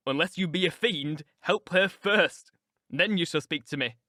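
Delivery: firm, deliberate order; grave, emphatic demand; stern command. Acted. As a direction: order him with contained force. Edgar confronts Heathcliff over unconscious wife.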